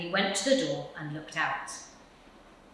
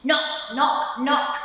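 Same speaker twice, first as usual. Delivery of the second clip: loud knocking; 8 semitones higher, 6 dB louder, much slower than usual. Acted. Knocking at the door.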